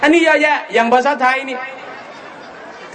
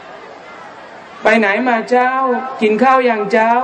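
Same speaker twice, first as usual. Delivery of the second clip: put-on northern Thai accent; much slower than usual. Preacher imitating a relaxed northern greeting, in northern Thai accent. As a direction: ease into it like a calm mountain villager. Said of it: "เพราะคนมันใจเย็น".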